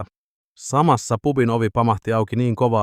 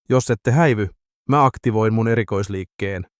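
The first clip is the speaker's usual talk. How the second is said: threatening. Acted. Kiljunen threatening the thugs, mock menace. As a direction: warn them off half-seriously. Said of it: "Kiljunen uhkasi".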